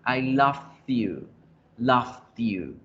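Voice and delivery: "loved you" slowly, with the D sounded before "you"; past-tense pronunciation. Shown as a demonstration. Teacher correcting the girl's sentence, careful past-tense pronunciation. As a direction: stretch out "loved you", landing a clear stop before "you". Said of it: "Te amaba".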